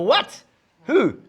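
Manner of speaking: shocked squeak. Retold or imitated. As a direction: gasp it out in disbelief. Landlord shocked he's on the show.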